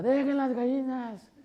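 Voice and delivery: put-on high, slow old grandma calling out; grandma yelling. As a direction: call off the kids like a scolding grandma. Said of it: "nos gritaba". (abuelita regañando a los nietos por las gallinas, voz aguda y lenta)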